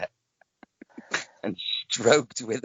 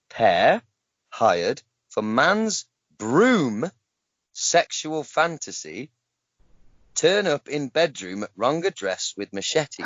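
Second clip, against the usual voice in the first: slow, deliberate word-by-word read with pauses; slower than usual. Shown as a demonstration. Host rereading the garbled headline for his co-hosts, slow word by word. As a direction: spell out "Pair hired for man's broom" slowly, word by word. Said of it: "gonna read it word for word".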